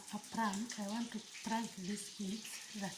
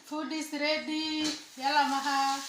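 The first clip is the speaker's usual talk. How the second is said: loud call to come eat; 5 semitones higher, 8 dB louder than usual. Real, not acted. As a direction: call them in, a bit raised. Calling kids to eat.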